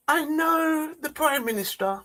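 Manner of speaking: slow, deliberate put-on voice of a female MP, drawn-out pauses; a mock-grave parliamentary speaker, words stretched out; imitating Diane Abbott. Mimicking an MP's slow speech to mock the Prime Minister. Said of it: "I'm gonna do my impression of Diane Abbott".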